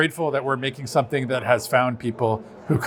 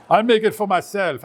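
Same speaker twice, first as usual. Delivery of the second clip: light mock French accent, higher; hammy fake French accent; 7 semitones higher than usual. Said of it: "I don't know why I'm talking in, like, some fake French".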